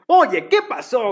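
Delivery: lively Mexican dubbing voice; Mexican dub voice. Retold or imitated. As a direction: ham it up like a Mexican cartoon dub. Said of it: "Lo escuchas mexicanos y es".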